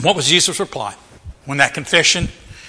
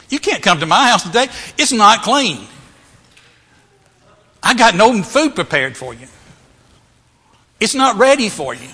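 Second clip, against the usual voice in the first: higher, mock-flustered objections; protesting excuses; 6 semitones higher, 4 dB louder than usual. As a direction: protest like an unready host. Acts out Zacchaeus making excuses.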